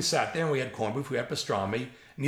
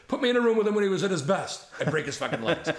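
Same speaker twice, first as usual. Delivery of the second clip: quick, louder, higher bragging threat; old comedy writer bragging to the storyteller, fast and loud; fired-up boast; 5 semitones higher, 3 dB louder, faster than usual. Retold or imitated. Retold boast, fast and hammed-up.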